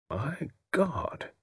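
a soft, breathless "My God" under the breath; hushed whisper. Acted. Evesham stunned by the inference, murmuring softly. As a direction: barely voice the shock. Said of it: "whispered Evesham at last".

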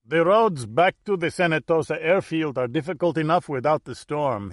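put-on lightly Corsican-accented English; a hint of a Corsican accent. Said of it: "he added in accented English".

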